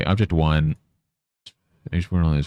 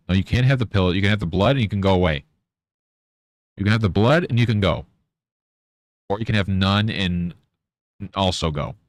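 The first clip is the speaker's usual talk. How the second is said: fast, higher mock haggling; mock bargaining; 4 semitones higher, faster than usual. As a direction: hurry the cat along, half-joking. Bargaining with the cat Biscuit.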